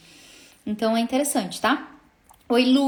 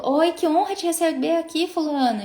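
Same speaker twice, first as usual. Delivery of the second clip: higher-pitched, gracious client welcome; welcoming greeting; 4 semitones higher than usual. Shown as a demonstration. Singer sending an audio to a new client, welcoming.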